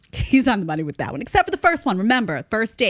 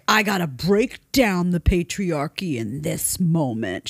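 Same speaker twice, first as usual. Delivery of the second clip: mocking activist barista; slower than usual. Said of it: "She's all like".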